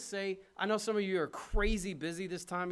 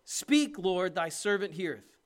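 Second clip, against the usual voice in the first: loud earnest call; 2 semitones higher, 7 dB louder, slower than usual. Acted. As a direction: call it out like a boy answering God. Preacher voicing Samuel's reply.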